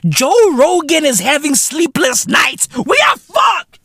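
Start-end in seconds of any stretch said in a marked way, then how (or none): 2.7-3.8 comic doom wail, way up high; hammed-up alarm; high-pitched panic. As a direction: cry it out in mock despair. Ranting that world is on fire.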